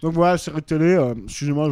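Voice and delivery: mouth full. Real, not acted. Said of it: "je mange une waffle au chocolat".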